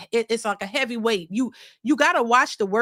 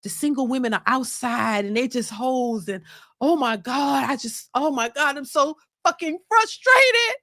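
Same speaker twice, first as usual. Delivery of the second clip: mock frustrated wife. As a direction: whine like a bored wife working herself up. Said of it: "now you like".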